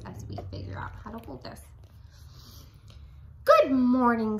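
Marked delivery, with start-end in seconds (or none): 3.4-4.4 friendly greeting. A narrator's reading. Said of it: "said the friendly ladybug".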